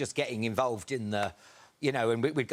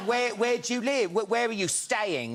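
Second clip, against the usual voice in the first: put-on a light Italian police accent, pitched higher; mock Italian police; 8 semitones higher than usual. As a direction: play the Italian cop quizzing them, lightly accented. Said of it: "like this".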